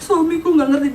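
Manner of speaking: exaggerated whimpering wail; mock crying. Wife sulking that her husband doesn't understand, mock sobbing. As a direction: act out a weepy, hurt wife. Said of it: "baper nangis".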